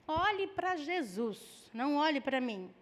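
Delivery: slow, soft, syrupy pious line; mock pious cliché. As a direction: drag it out like a sanctimonious slogan. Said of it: "esse é um jargão gospel".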